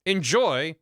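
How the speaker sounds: a hint of a prim hotel bellboy, polite and proper; stuffy bellboy voice. Bellboy politely greeting the lawyer in the hotel room, prim and formal. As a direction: play the bellboy with stiff courtesy.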